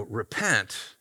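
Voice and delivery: God gently urging Cain to repent; gentle invitation. Retold or imitated. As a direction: say "Repent." like a loving father inviting you home. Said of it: "not the angry street preacher, but God saying".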